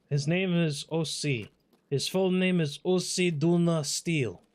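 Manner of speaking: loud, playful announcer voice; mock announcer. Shown as a demonstration. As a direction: announce it like a big title. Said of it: "playful announcer voice".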